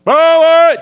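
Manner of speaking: high, loud shouted greeting; driver's yell. Retold or imitated. Imitating the shouting van driver, high and loud. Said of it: "le genre de gars qui parle, puis il crie".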